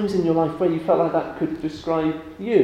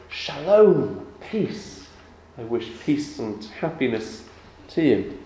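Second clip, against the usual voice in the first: gentle blessing; slower than usual. Retold or imitated. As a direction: bless them gently, the voice sinking. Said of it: "when it says".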